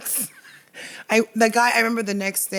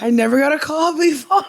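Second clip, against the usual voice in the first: higher, louder, breaking into laughter; laughing through it; 7 semitones higher, 6 dB louder than usual. Retold or imitated. Guest retelling the producer's call, laughing. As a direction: let a laugh break the quote.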